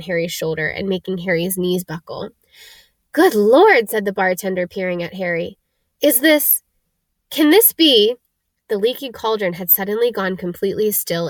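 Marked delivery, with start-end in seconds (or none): 3.1-3.9 surprised. A narrator's reading. Bartender's astonished exclamation. 6.0-8.2 astonished. A narrator's reading. Bartender recognizing Harry.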